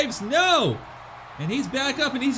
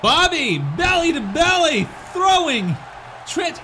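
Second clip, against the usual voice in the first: excited shout; 4 semitones higher, 4 dB louder than usual. Real, not acted. Big throw in wrestling commentary.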